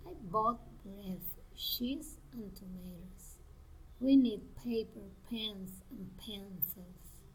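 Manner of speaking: listed items set apart, falling away on "pencils"; list intonation. Shown as a demonstration. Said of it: "rising intonation".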